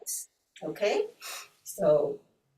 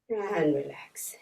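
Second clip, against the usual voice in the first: whispered; slower than usual. Acted. Soft close after breath round.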